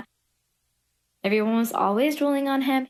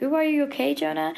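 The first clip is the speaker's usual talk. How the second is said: lightly imitated friends, pitched higher; a higher-voiced "ooh" put on for the friends; mock concern; 5 semitones higher, faster than usual. Friends waiting outside ask Jonah, mock concern.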